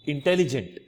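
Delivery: intelligent with each syllable sounded out; Hindi-style intelligent, evenly stressed. Shown as a demonstration. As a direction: keep every syllable of intelligent full. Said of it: "we put stress in each and every syllable".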